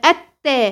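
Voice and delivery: التا with the doubled ت pushed hard; mistaken, punched doubling in التا; over-pressed shadda. Shown as a demonstration. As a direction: press too forcefully on the ت of التا. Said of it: "تضغطي على الحروف".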